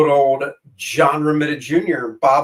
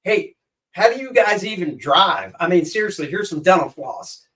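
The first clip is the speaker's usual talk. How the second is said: dumb American tourist; 4 semitones higher than usual. Retold or imitated. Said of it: "I went over there and I said".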